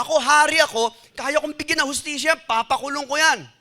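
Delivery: high, somewhat loud royal boast; David thinks as king he can jail the man, high and indignant. Acted. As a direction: claim your power to punish like a proud angry king. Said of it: "sa isip-isip niya".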